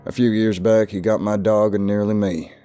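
ominous southern warning; lightly voiced, foreboding old man. A narrator's reading. Southerner warning the stranger of Gumjaw, ominous. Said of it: "replied in an ominous tone".

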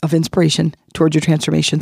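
hoarse from laryngitis; raspy voice. Real, not acted. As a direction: talk through a raspy, worn-out voice. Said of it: "So sorry about my raspy voice".

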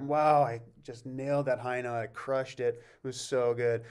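mild self-satisfaction. Retold or imitated. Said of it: "I did a performance and I thought".

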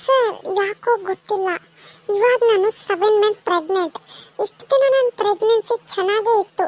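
a pregnant woman gripped by stomach pain. Acted. (ನೋವಿನ ಧ್ವನಿ)

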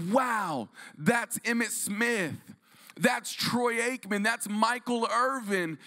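put-on high, drawn-out kid wonder; awed kid. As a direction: marvel like a boy seeing heroes. Child awed in stadium.

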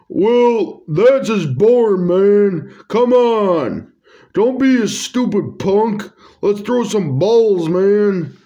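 a hint of a laid-back dude nagging; Tyrone's voice. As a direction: coax a friend, half teasing. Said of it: "I don't know if that's how he, how people like that talk".

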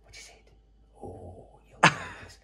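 pet voice. Real, not acted. Talking to the cat.

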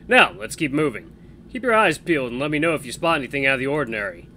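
brisk, friendly instructions; upbeat patrol partner. Acted. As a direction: lead the patrol cheerfully. Max giving orders.

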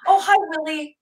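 imitating Mimi. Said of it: "She goes".

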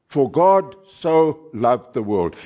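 SO set apart and held before "loved"; stress on SO. Shown as a demonstration. Preacher repeating the misquoted verse to listeners, stressing SO. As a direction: dwell on the word "so". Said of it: "emphasis is placed on the word so".

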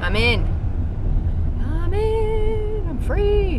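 high, loud excited cry; excited cheer. Real, not acted. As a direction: celebrate getting in. Gets in after waiting.

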